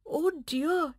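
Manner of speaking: mild puppy surprise; surprised exclamation. Acted. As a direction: react as if startled. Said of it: "exclaimed Woofus".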